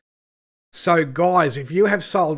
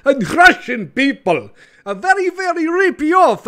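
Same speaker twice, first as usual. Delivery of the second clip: mocking high rise; 11 semitones higher, 7 dB louder than usual. Mock stereotype rising, squeaky.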